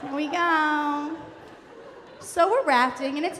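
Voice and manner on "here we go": slow, drawn-out hippie send-off; lightly voiced, stretched-out hippie; hippie guide. Guide launching the rafters, slow and hippie-ish. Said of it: "hippie granola kind of freak".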